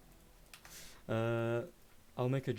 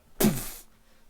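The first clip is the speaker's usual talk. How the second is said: loud imitated crunching stomp; stomp sound effect; 3 semitones higher, 14 dB louder than usual. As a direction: burst of mouth-made impact noise.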